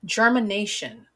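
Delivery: ger-mi-na-tion, each part said clearly; syllables said clearly. Shown as a demonstration. Teacher modeling a word for young learners, clear and careful. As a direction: model germination for kids to repeat.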